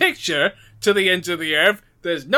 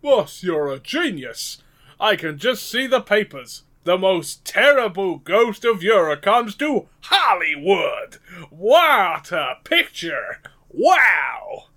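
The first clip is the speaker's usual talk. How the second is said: slow, gushing flattery; hammed-up awe for the boss; sucking up; slower than usual. Underling praises the boss's Hollywood idea, sucking up. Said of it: "Is this sucking up".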